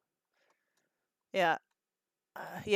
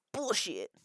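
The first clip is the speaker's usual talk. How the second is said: whispered swear; 6 dB quieter than usual. Real, not acted.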